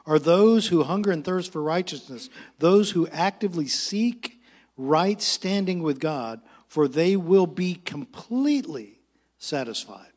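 slow, weighted verse reading; measured pulpit reading with stretched key words; scripture reading. Acted. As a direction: read the verse out slowly, phrase by phrase.

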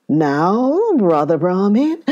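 lightly voiced growling tiger; a touch of menace, tiger to prey; a hint of a growling tiger. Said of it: "growled the tiger".

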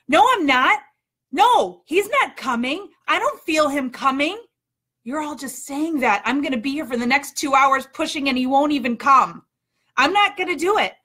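whiny protest. Retold or imitated. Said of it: "pushing and screaming".

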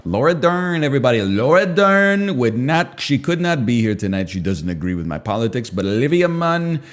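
lightly voiced Trump rally patter; Trump impression. Streamer riffing names in his Trump voice. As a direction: roll call guests like a rally. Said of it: "Trump impression".

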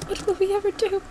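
tiny, very high, soft put-on voice; mock-helpless high squeak, kept small. Player frets in play as Alice, high put-on voice. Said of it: "when did you change your voice so drastically".

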